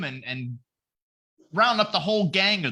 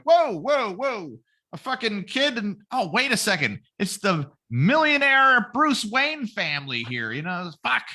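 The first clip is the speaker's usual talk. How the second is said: shocked cops; 5 semitones higher than usual. Retold or imitated. Cops finding the dead parents.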